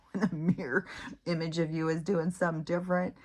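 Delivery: whispered, spooked; creepy whisper. Real, not acted. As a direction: let it slip out as a hushed whisper. Creeped out by mirror images.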